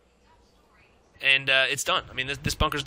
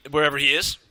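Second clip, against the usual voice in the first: whisper; 3 semitones lower than usual. Real, not acted. Joking the player stays silent.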